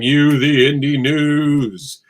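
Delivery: slow, drawn-out announcer read. Acted. Host announcing the indie news segment, drawn out. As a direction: stretch it like a show title.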